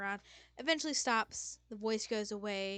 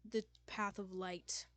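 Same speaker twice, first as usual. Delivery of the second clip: slow, loud, grand god voice; booming voice; 6 dB louder, slower than usual. Acted. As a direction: boom it out like a deity. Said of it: "It's a big booming voice".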